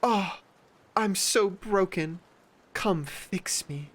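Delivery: mock self-pity. Mocking attention seekers, high whiny self-pity. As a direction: whine like a drama queen. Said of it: "it's the combination of".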